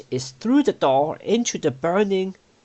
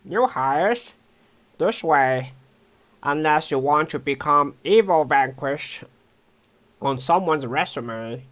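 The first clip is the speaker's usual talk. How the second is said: different goblin voice. Acted. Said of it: "let's try a different".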